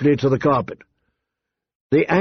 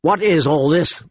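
suspicious; 4 semitones higher than usual. A narrator's reading. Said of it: "Viserys frowned suspiciously".

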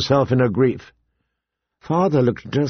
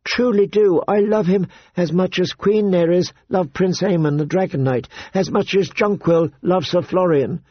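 put-on higher, earnest girlish voice; young girl pleading; 6 semitones higher than usual. Daughter begging her father to accept her beloved, high and earnest. Sansa pleads love for Joffrey.

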